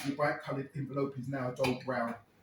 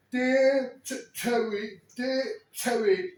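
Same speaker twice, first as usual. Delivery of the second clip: choked reading; 6 semitones higher, 4 dB louder, much slower than usual. Retold or imitated. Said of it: "he starts blubbering".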